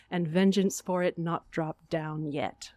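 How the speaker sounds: theatrical monologue reading; dramatic Shakespeare recitation. Acted. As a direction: deliver the queen's death with grief.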